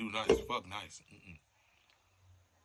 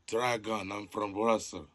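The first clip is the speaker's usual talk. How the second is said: put-on Russian accent; 2 semitones lower, 5 dB louder than usual. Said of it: "Why you talking like that?".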